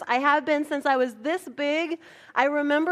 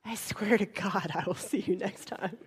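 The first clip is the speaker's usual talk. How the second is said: laughing vow; 5 semitones lower, 6 dB quieter than usual. Real, not acted.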